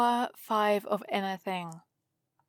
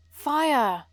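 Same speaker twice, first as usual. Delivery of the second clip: excited shout; 4 semitones higher, 5 dB louder than usual. Acted. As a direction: fire shouted out high and loud. Yes, the idea is fire.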